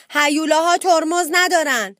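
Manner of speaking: high, loud playful declaration. A narrator's reading. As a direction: announce it loudly like a heedless little monster. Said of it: "با صدای بلند گفت".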